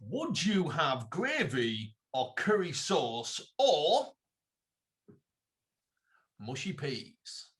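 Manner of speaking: very slow, drawn-out dramatic question; a lightly voiced Clarkson, slow and teasing; Jeremy Clarkson moment. Posing a food dilemma to co-host, slow mock Clarkson. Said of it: "can I do a Jeremy Clarkson moment?".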